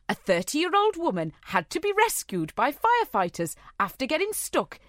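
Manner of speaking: put-on botched Welsh accent drifting into Geordie; Geordie-tinged Welsh attempt. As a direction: try Welsh, slip into Geordie. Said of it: "I've gone Geordie".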